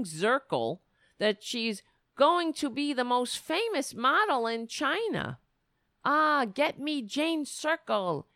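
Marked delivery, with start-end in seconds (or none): 6.0-8.2 slow, higher-pitched mock Chinese accent; a hint of stereotyped Chinese accent. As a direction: lightly imitate someone faking a Chinese accent. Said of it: "he said while using the accent".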